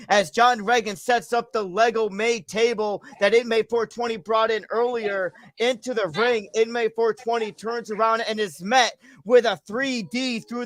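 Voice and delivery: steady match commentary in full sentences; wrestling play-by-play. Acted. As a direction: call the wrestling action like a ringside announcer. Calls an imaginary wrestling match.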